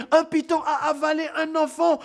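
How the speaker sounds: very high, alarmed cry; woman crying out. Acted. Woman in the panicking crowd crying out very high. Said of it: "une femme qui criait".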